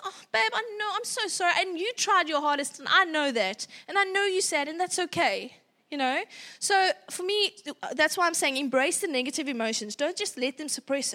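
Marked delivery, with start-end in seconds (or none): 0.0-5.5 put-on soothing parent comforting a sad child; sympathetic. Shown as a demonstration. Parent soothing disappointed child, tender and sympathetic. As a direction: gently console a disappointed kid. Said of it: "you're gonna sympathize".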